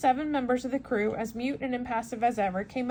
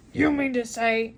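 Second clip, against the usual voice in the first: exclaiming; 6 dB louder than usual. Acted. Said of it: "exclaimed the Canadian".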